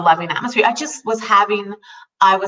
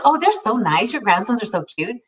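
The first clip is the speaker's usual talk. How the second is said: bright put-on niceness, pitched up; fake friendly. Making small talk with a grumpy client, fake friendly. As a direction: sound cheerful while forcing it. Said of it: "it was fake 'cause I was just trying to".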